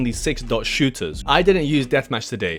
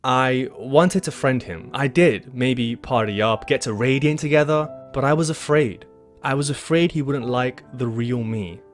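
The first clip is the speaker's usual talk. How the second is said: mock-heartfelt farewell. Mock sad farewell over music.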